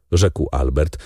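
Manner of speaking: ordinary delivery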